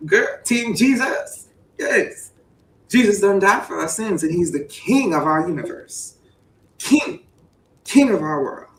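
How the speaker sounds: hammed-up church call; mock preaching. Playing preacher rallying the church crowd.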